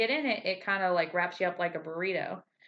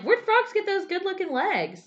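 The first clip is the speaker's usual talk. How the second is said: admiring; 13 semitones higher, 4 dB louder than usual. Retold or imitated. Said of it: "I'm like".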